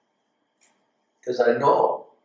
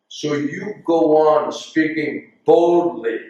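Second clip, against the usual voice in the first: slow firm counsel; slower than usual. Retold or imitated. Spiritual master's slow counsel.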